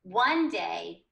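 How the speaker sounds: "One day" with "One" leaned on, then a pause; pause at the comma. Shown as a demonstration. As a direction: read "One day" and wait a beat. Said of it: "it's first a pause".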